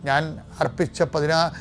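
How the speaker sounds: preacher praying with authority over the bound; deliverance prayer. Real, not acted. Preacher praying for those stuck without jobs or visas, commanding prayer. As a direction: pray it as a command of healing and release.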